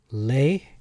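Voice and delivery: "lay" with an ay vowel; pronounced lay. Shown as a demonstration. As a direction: say "lay" as a separate syllable. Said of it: "could be pronounced as".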